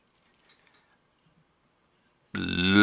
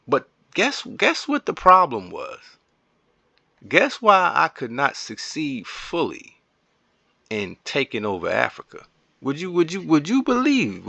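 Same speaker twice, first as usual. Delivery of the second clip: milk the suspense for the viewers; teasing build-up; 7 semitones higher than usual. Real, not acted. Streamer teasing viewers about why he lost Africa, playful suspense.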